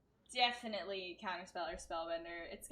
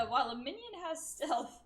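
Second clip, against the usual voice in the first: innkeeper voice; 7 semitones higher, 5 dB louder than usual. Retold or imitated. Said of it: "Like the, the innkeeper telling me".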